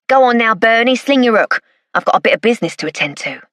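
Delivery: lightly voiced Cockney geezer, brushing someone off; a hint of a London wide boy getting rid of a pal; East End informant. Weasel, East End informant, dismissive.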